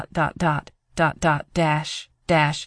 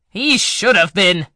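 loud, furious outburst; angry outburst; 3 semitones higher, 5 dB louder than usual. Acted. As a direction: spit it out in rage. Villain enraged at survival.

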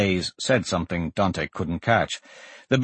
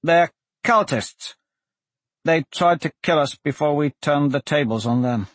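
lightly voiced defendant, higher pitched; accused Blaze; 4 semitones higher than usual. Blaze defends himself to the magistrate, earnest higher voice. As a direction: plead his case in a raised pitch.

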